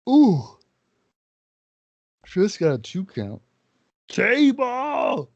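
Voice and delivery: rising, excited play-by-play; excited commentary. Real, not acted. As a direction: call the big moves as they land. Live reaction to wrestling match.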